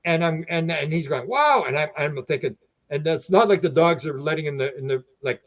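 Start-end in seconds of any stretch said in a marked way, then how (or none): 1.3-1.6 high, louder retold exclamation; astonished wow. Owner seeing blood on the wall, astonished exclamation. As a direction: imitate someone stunned.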